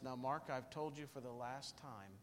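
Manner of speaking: low, soft, firm last warning; a hint of a father's quiet threat; stern dad warning. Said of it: "he would say something like this".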